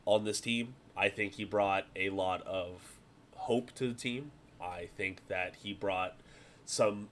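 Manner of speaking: lightly imitated pundit, slow with weighty pauses; Nick Wright. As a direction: deliver a mild pundit impersonation, drawing out each claim between pauses. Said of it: "do my best Nick Wright impersonation here".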